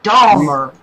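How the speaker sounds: DAHMER with a clear opening D; Dahmer, "DAH-mer", with a D; corrective pronunciation. Shown as a demonstration. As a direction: repeat Dahmer firmly as the correction. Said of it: "not Palmer".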